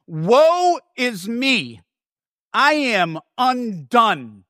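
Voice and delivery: very slow, drawn-out Woe is me; dread. Retold or imitated. Isaiah undone before God's throne, slow and dread-filled. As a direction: let each word fall heavy with dread. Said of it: "He says".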